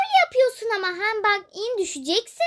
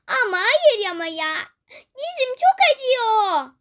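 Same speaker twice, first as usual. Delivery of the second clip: crying over knee. Acted. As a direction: whimper through tears. Child fell, crying over knee.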